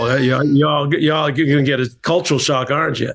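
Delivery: imitating a deep Southern Kentucky drawl; Eastern Kentucky drawl. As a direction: mimic the tour guide's slow drawling Eastern Kentucky accent. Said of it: "he said it in a deep drawl".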